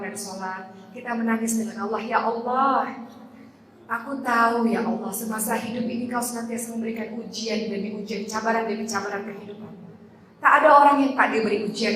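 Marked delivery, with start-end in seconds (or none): 2.0-9.7 tearful prayer. Acted. Preacher voices a weeping prayer.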